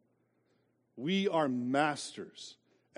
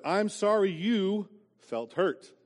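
fake apology; 6 semitones higher, 4 dB louder, slower than usual. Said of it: "But we do it".

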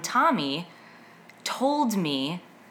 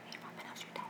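barely audible, voiceless whisper; mouthed nearly silently; 25 dB quieter, much faster than usual. Shown as a demonstration. Host demonstrating an old anxious tic to listeners, soundless mouthing. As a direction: mouth the words with almost no breath behind them. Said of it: "to myself without sound, but mouth the words".

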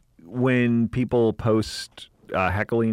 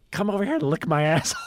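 laughing quote; 4 semitones higher, faster than usual. Retold or imitated. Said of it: "I was like".

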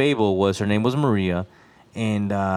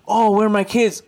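a higher, half-sung mock wail; mock ghostly wail; 9 semitones higher, 4 dB louder than usual. Telling friend the legend, lightly mocking the ghost's wail. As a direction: lightly imitate the weeping ghost. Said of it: "Kinda like saying".

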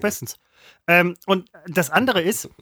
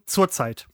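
"zur Zeit" run together as one word; low, fused "zurzeit"; changed stress; 5 semitones lower than usual. Shown as a demonstration. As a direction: say "zur Zeit" as a single compound, lower. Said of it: "Die Betonung ändert sich sogar".

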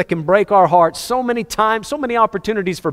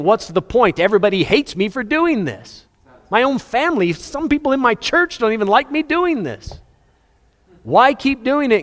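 pitched up, exasperated self-pity; discouraged complaint; 7 semitones higher than usual. Retold or imitated. A weary believer asks why bother, exasperated and high. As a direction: whine it like you're fed up.

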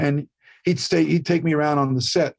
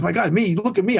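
animated imitation; 6 semitones higher than usual. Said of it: "He's all animated".

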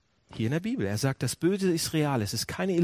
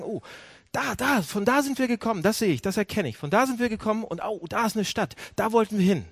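higher, eager "Oh, da, da!" as if spotting the town; excited discovery; 5 semitones higher than usual. Acted. Pastor voicing hikers who spot the town, excitedly. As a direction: point out the way home with relief.

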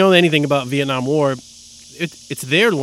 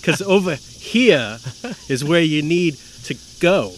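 bad acting; slower than usual. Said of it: "Am I saying these lines wrong? Is that the cadence".

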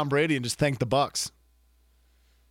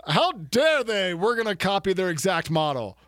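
mock outrage; 4 semitones higher than usual. Mock outrage voicing PGA.

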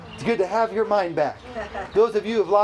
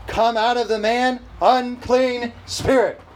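firm, slightly raised command; commanding exclamation; 4 semitones higher, 3 dB louder, slower than usual. Acted. Preacher voicing Jesus ordering out the spirit, commanding. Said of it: "Exclamation point".

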